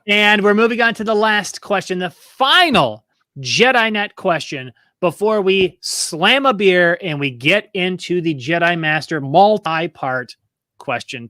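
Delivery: slow, drawn-out game show announcing; quizmaster build-up. Real, not acted. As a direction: build up the final question with stretched key words. Quizmaster builds up the last question.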